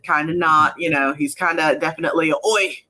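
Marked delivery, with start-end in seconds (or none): 2.3-2.8 lightly imitated British accent, drifting Australian; rough British accent. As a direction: attempt a British rugby-player accent, half landing it. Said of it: "kind of a British accent".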